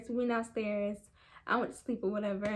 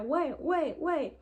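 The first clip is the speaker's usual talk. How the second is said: higher, urgent wait-wait; alarmed wait; 5 semitones higher, much slower than usual. Retold or imitated. Brother halting the family after the news, higher and urgent. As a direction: stop everyone, caught off guard. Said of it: "my brother was like".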